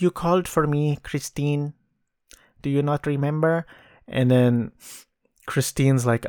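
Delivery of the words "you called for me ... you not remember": lightly imitated Filipino accent, a touch high. Visitor at the doorstep reminding Christine she called, mild Filipino accent. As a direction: put on a mild Filipino accent for the film character. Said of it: "interesting way of speaking".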